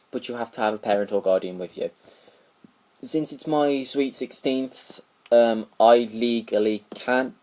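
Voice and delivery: holding back hiccups and burps; suppressing hiccups. Real, not acted. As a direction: talk through hiccups. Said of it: "sorry, hiccups and burping".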